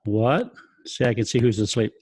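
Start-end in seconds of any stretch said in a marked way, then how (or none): 0.1-0.5 rising questioning what. Shown as a demonstration. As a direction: ask it with a rise. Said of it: "take your finger and go".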